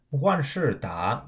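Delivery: slow 万事达, two falls then a rise; careful 万事达, falling, falling, rising; two fourths, one second. Shown as a demonstration. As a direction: let 万 and 事 drop, lift 达. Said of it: "W A N in the fourth tone".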